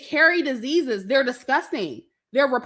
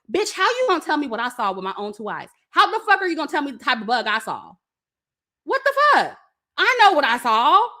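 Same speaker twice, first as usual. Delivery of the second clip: indignant rant; faster than usual. Retold or imitated. Ranting at sister over the bug.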